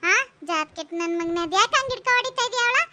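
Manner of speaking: outraged neighbour telling him off; acted angry reproach; indignant scolding. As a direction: berate him sharply. Neighbour scolds son for beating mother.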